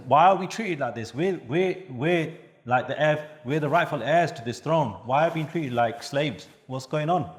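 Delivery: mock distressed questioning, voice lifted, no real crying; retold distress. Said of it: "really distressed, he's crying".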